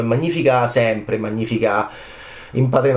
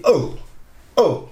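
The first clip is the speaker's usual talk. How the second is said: mock groan; 5 semitones higher than usual. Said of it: "Leone fece così".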